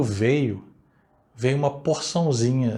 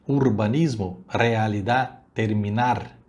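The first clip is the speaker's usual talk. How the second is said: Spanish accent. Shown as a demonstration. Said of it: "ditas da maneira hispânica".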